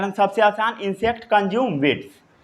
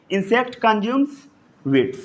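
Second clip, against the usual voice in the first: very slow, word by word for note-taking; slow dictation; much slower than usual. Shown as a demonstration. Teacher dictating a note to the class, very slow. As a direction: spell it out slowly so students can write. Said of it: "इतना note down कर लिए?".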